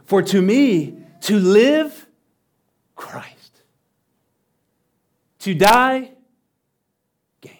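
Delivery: clipped phrases with long pauses, "Christ" nearly breathed; wooden literal reading. Shown as a demonstration. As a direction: read "To die, gain" word by word with heavy pauses. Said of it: "something more like this".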